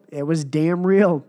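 slow, leaning on damn real; slow, punchy Kurt Angle quote; Kurt Angle catchphrase. Retold or imitated. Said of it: "as Kurt Angle said".

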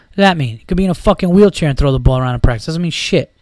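fast, heated rant; getting mad. Real, not acted. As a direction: rant with real irritation, pace pushed. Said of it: "I don't know why I'm getting mad".

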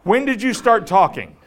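mock amazed outburst at a talking dog; startled shock. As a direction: react as if your dog just spoke. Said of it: "I'm gonna be like".

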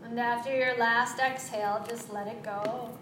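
calm, unhurried breathing cues with long pauses; guided breathing. Acted. Yoga teacher leading students through three-part breath, calm and unhurried. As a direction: coach each breath in and out gently.

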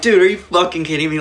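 high, loud disbelieving outcry; incredulous outburst. Retold or imitated. Skater to friend Bill, incredulous and outraged, pitched high.

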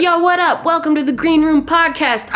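high hyped greeting with trilled r; rolled r. Pretend. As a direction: trill the r in Green Room. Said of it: "I'm gonna try that".

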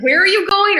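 high, loud mock Australian "How are you going?"; playful Australian accent impression; imitating Aussie greeting. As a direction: sing it up like an Aussie local.

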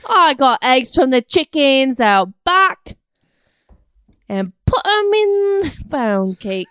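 slow, stretched mock mom; impression of cooking mom. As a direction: draw the words out as a put-on cooking mom. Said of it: "an impression of your mom cooking".

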